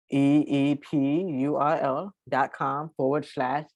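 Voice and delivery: slow, letter-by-letter dictation; slow spelling out. Real, not acted. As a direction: read the web address slowly. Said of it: "I'm gonna read it very, very, very slowly".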